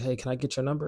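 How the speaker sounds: a hesitant, tentative ask for her number; asking permission. Retold or imitated. Mocking guys who timidly ask a girl for her number. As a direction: ask for her number as if she might refuse. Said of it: "they'll say things like".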